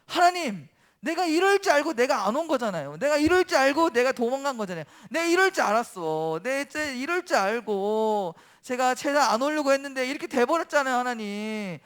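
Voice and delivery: whining, exasperated complaint to God; acted temper. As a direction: play a prophet throwing a mild tantrum. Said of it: "성질을 내면서 하나님께 말했어요".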